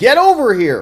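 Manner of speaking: high, loud, alarmed woman's yell. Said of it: "a woman is heard yelling at Crooks".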